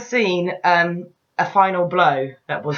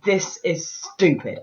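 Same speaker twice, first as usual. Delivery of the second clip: deadpan verdict; 2 semitones lower, 4 dB quieter, much slower than usual. Retold or imitated. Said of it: "the final moment of pure".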